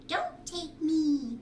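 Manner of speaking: slow, lightly voiced fancy egg; jeweled eggs. A narrator's reading. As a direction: drawl it like a proud jeweled egg. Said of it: "the gold and silver and jeweled ones said".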